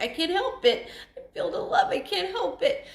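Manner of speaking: laughing through tears. Real, not acted. Widow answers her late husband, laughing through tears. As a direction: laugh it off while emotional.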